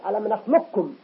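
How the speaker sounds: "نخلقكم" as nakhlukkum, no q; assimilated qaf. Shown as a demonstration. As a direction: merge q into a doubled k in "نخلقكم". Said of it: "ندمج القاف في الكاف". (إدغام قاف "نخلقكم" في الكاف)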